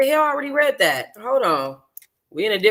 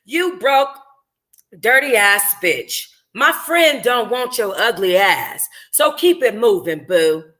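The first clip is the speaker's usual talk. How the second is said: Kamisha's insult. Acted. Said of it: "this is Kamisha".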